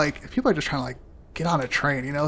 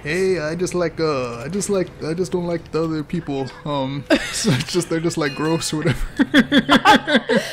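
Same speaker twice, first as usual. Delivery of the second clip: slow, laughing put-on Hispanic accent. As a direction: drag it out in a joking Hispanic accent. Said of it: "that accent makes me nervous".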